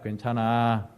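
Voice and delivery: low, gentle comfort; warm reassurance. Shown as a demonstration. Leading congregation to comfort their neighbour, warm reassurance. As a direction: model a kind, reassuring word. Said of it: "이런 따뜻함들이 필요할 것".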